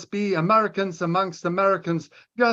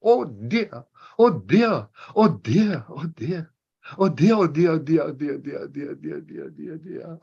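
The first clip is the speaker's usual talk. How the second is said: panicked repeating, fading to unvoiced; terrified gibbering. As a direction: gibber in terror, dying away. Turkey panics, dies away.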